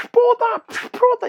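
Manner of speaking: very high, piercing screech; shrill girlfriend yelling. Retold or imitated. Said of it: "al otro día". (grito agudo de la novia)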